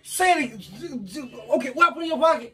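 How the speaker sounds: 1 demanding, rising anger. Real, not acted. Heated prank confrontation, boyfriend yelling.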